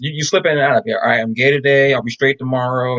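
deadpan mock explanation; sarcastic. Mock-explaining choice like picking boxers, sarcastic. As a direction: play it straight while meaning the opposite. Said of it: "Yes, I'm being sarcastic".

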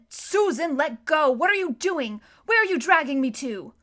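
urgent, indignant yell; alarmed protest. A narrator's reading. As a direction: cry out as you are being dragged off. Peter protesting at being dragged.

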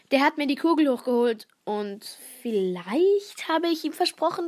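reading her frog story aloud. Acted. Girl reading her school story to the podcast listeners, storyteller voice. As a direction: tell it as the frog, storyteller style.

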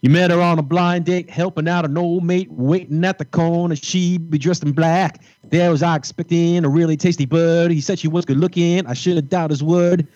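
sung a cappella in an English accent; half-sung verse in a put-on English accent, pitched steadily. Shown as a demonstration. Singer gives the guys a verse from a band, English accent. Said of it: "a little bit of my English accent".

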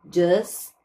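Just ending without the t. Shown as a demonstration. Teacher shows just without the t. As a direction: drop the final t in Just. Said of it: "a gente pode omitir o T".

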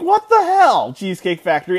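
high, exasperated what the hell; retold exasperation at Cheesecake Factory; mock outrage. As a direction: throw up your hands at the restaurant. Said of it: "And I was like".

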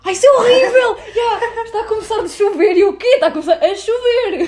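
high, loud laughing outburst. Real, not acted. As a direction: laugh through the words. Laughing at an odd phrase.

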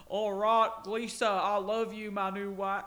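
mock husband shouting as he rushes by; lightly voiced husband calling out. Husband calls to wife while skiing, mock shout. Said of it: "he would go".

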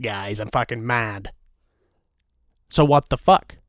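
ordinary talk

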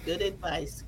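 ordinary talk, nothing marked

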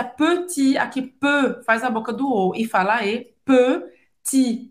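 petit with rounded lips and a front e, final t silent; careful French petit. Shown as a demonstration. Teacher modelling petit for learners, silent final t. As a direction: say petit with an eu-like vowel and drop the t. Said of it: "presta atenção na pronúncia".

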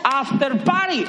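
slow, drawn-out after party. Acted. Pastor teasing the after party, slow drawn-out announcement. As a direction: let after party hang in the air.

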